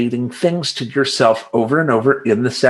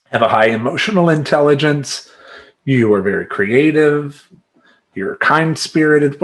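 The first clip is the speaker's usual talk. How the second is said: self-affirmations; slower than usual. Shown as a demonstration. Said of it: "you say".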